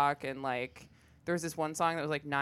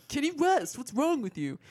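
loud, high mock exasperation; exasperated disbelief; 9 semitones higher, 4 dB louder than usual. Imitating a coworker baffled by her ignorance, loud exasperation. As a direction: repeat the name as if it were obvious, pitched way up.

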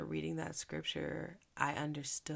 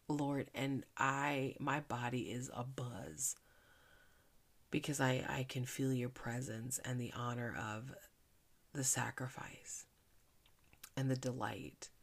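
heartfelt prayer. Acted. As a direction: speak thanks to God gently. Praying to the Lord.

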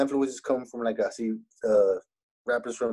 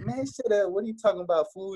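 retold hood girls' comeback; 8 semitones higher than usual. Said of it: "And they're like".

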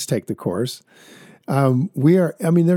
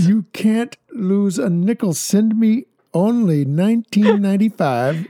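high, eager pitchman; hard sell on the price; infomercial; 7 semitones higher than usual. Pretend. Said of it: "Sounds like an infomercial".

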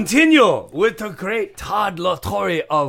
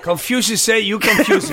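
mock Chinese accent; 4 semitones higher, faster than usual. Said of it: "I was just gonna say Confucius say".

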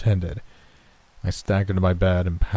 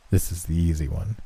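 lightly smiling, calm reassurance; 3 semitones lower than usual. A narrator's reading. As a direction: say it with a hint of a smile. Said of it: "He said it with a smile".

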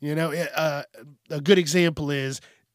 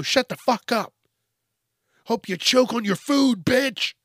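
raised, louder imitation of hostility; mock angry retort; 6 semitones higher, 5 dB louder than usual. Stranger snapping back at a diner, mock angry. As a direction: act out a high-pitched, aggressive comeback.

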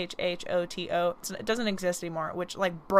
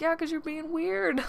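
sassy retort; 9 semitones higher than usual. Retold or imitated. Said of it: "I was like".

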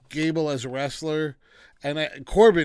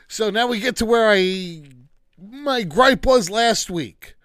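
louder, higher, exasperated complaining; heated rant; 4 semitones higher, 5 dB louder than usual. Real, not acted. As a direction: vent your frustration about the booking. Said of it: "Sorry for my rant".

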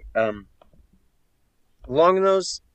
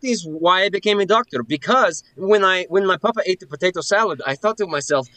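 raised, higher-pitched proclamation, overdone; loud cover story; 8 semitones higher, 4 dB louder than usual. Acted. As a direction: blurt it loudly and high as a cover. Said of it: "You don't have to shout in my face".

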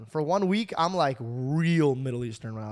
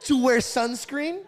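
laughing mock retort; 9 semitones higher, 5 dB louder, slower than usual. Mocking friend about sunscreen.

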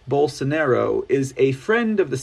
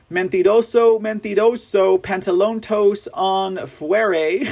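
mock Spanish taunt; 3 semitones higher than usual.

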